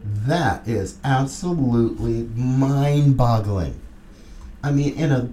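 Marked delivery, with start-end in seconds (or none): 0.0-3.7 low, slow astonished whoa; mock amazed whoa. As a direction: drag it out, stunned and low. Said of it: "I'm like".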